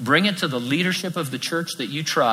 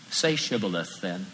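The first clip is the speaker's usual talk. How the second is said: 1 quiet menace; 5 semitones lower, 7 dB quieter than usual. Retold or imitated. Guard testing the fugitive.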